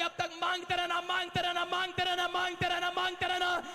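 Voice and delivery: rising, insistent sermon voice; fiery preaching. Acted. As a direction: build the beggar's resolve into a rally cry. Preacher repeating keep asking.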